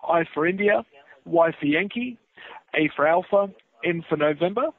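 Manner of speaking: spelling with the phonetic alphabet. Real, not acted. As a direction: read back letter by letter, call-sign style. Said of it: "I like your phonetic alphabet".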